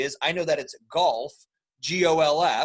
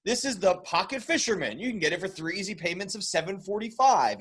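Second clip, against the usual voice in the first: a touch of a TV pitchman; infomercial voice; 3 semitones higher than usual. Retold or imitated. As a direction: sell it like a late-night ad. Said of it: "they just try to".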